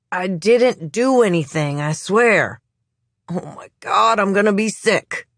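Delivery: high, strained, queasy plea; panicked suspect. Acted. Suspect about to vomit in front of the police, high and panicked. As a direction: plead while your stomach turns.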